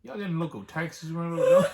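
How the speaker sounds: 1 laughing. Retold or imitated.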